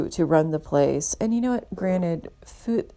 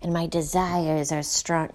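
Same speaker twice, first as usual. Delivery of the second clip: hushed, half-whispered sensuous boast; imitating the match's breathy brag; mock passionate drummer. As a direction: ham up his smoldering self-image. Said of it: "then he's like".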